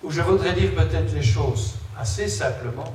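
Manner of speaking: echoing in a big empty hall; empty warehouse echo. Real, not acted. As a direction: voice ringing off bare walls. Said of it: "ça résonne ici".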